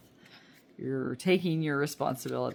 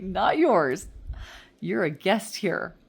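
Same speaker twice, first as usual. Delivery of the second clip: louder, slow and firm; firm assertion; 3 semitones higher, 6 dB louder, slower than usual. Retold or imitated. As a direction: put your foot down.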